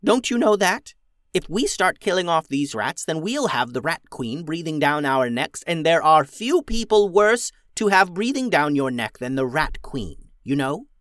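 high, loud exasperated goblin voice; a goblin alarmed at the very idea; goblin warning. Acted. Ramona warns the girls about the Rat Queen, high and loud. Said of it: "said Ramona".

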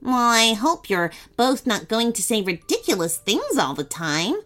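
high, sharp scolding; rude snap. Acted. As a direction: snap it out impatiently. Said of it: "she snapped rudely".

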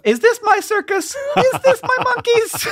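squeaky high silly self-questioning; high mock voice. Brother joking about tweeting rules, in a high mock voice. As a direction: pipe it up like a fussy little voice. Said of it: "ask yourself two questions".

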